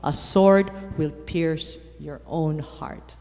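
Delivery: slow, grave prophecy; solemn prophecy. Retold or imitated. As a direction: pronounce it like a solemn omen. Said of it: "Simeon says the following things".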